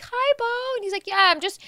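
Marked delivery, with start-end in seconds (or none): 0.0-0.8 high, sweet little hello; Minka. Retold or imitated. Mom imitates friend greeting her son, high-pitched hello. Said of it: "And she's like". 1.1-1.6 mock-casual kid showing off; acting all cool. Mom imitates son bragging to crush about staying up, acting cool. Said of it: "like, acting all cool".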